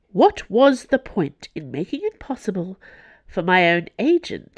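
high, forceful angry cardinal. A narrator's reading. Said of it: "She was angry".

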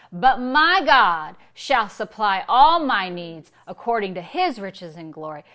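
"my God" punched loud and held; emphatic scripture recital. Shown as a demonstration. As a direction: declare it boldly, weight on MY GOD. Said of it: "we say that verse".

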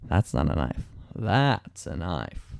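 low, slow mock Australian accent; Aussie accent. Quoting the movie to friends, lightly put-on Australian accent. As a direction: drawl it out like Crocodile Dundee, Australian accent. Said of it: "You just made the accent".

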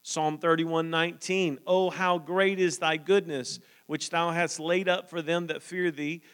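measured, lifted reading of the verses; scripture reading. Acted. Preacher reading psalms to the church, measured and lifted. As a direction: read the psalm aloud to the congregation.

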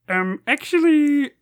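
high, slow pedantic correction; annoying Uber driver. Acted. Podcaster searches for his Uber driver bit, high annoying voice. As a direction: put on an annoying know-it-all driver voice. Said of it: "I did Uber driver voice".

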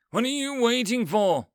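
loud, high screech; the angry wizard screeching at Becca, loud and high. A narrator's reading. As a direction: screech it at the girl. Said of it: "That wizard screeches".

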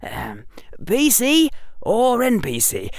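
put-on young boy muffled by scarf. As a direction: talk through a scarf over the mouth. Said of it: "said that young, muffled voice".

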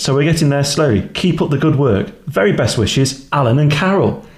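lightly posh letter reading; a hint of a posh couple. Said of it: "I need to put the posh voice on for this one".

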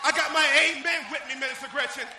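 loud, punchy church exhortation; rally the ministers with forceful bursts; fired-up preaching. Real, not acted. Preacher calling on ministers about the amen, fired-up.

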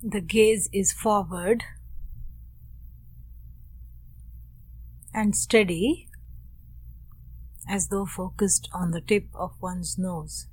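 unhurried meditation guidance, long silences between phrases; guided meditation. Real, not acted. Teacher guides students into posture and breath, calm meditation voice. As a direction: gently settle listeners with spare, measured phrases.

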